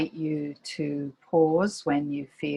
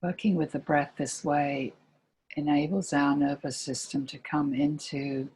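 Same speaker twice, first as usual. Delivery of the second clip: calm meditation guide with long pauses between phrases; guided meditation. Real, not acted. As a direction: gently lead listeners into body and breath, pausing often.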